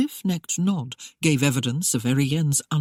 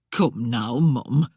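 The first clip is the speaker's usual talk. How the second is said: coaxing; 4 semitones lower, slower than usual. A narrator's reading. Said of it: "Aggie coaxed".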